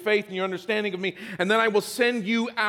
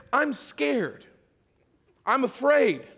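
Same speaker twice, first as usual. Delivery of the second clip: put-on higher small child's voice admitting fear; scared kid; 4 semitones higher, slower than usual. Little brother confessing fear to his big brother, higher voice. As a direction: sound like a frightened little boy.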